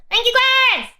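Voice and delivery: loud, high thank-you; excited thanks. Real, not acted. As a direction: thank the chat loudly. Loud streamer thanks to donors.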